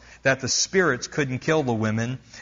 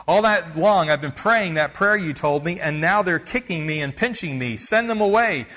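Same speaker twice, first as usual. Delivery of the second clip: desperate plea; 3 semitones higher than usual. Retold or imitated. Tormented woman pleading with the missionary, desperate. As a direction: beg for help, rising at the end.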